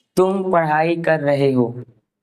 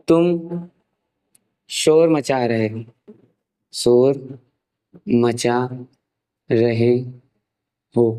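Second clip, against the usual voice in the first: slow dictation; much slower than usual. Shown as a demonstration. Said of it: "examples".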